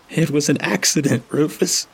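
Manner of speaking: high, strained, breaking voice; cracking hoarse shout. A narrator's reading. Toggs shouting through his bruised windpipe, hoarse. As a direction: force it through a bruised throat. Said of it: "he shouts, his voice cracking and hoarse".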